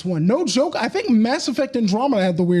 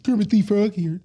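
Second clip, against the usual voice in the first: Kermit voice. Pretend. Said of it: "I wanna do the voice of, uh, Kermit".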